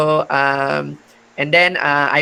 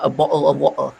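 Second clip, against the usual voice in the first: Cockney glottal stops in "bottle of water"; Cockney dropped t's; Cockney accent; faster than usual. Shown as a demonstration. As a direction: show the Cockney way, t's swallowed. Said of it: "that is a Cockney accent".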